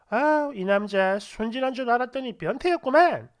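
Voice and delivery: lightly acted teasing grumble; playful scolding. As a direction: scold him as a joke, not truly angry. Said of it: "진심으로 화를 내는 게 아니라 그 장난". (장난스럽게 타박하듯)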